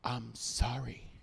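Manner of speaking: soft, slow, low "I'm sorry."; a kid's soft, slow apology; nicer sorry. Retold or imitated. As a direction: say "I'm sorry." gently and sincerely. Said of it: "tell him in a nicer voice".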